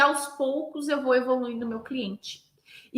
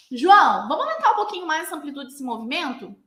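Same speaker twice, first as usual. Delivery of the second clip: calling out; 3 semitones higher than usual. Acted. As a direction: get a distant student's attention and coax. Instructor calls across class to student. (chamando e incentivando o aluno)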